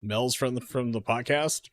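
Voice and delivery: slow, halting, rising on podcast; slow puzzled reading. Real, not acted. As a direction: read it out haltingly as if decoding mumble. Puzzled rereading of mumbled line.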